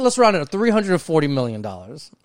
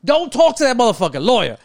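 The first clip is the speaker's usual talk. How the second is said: loud, higher yell at a TV detective not to talk; 4 semitones higher, 4 dB louder than usual. Retold or imitated. Yelling at a crime show suspect, loud and higher. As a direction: shout advice at the screen. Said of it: "Be like".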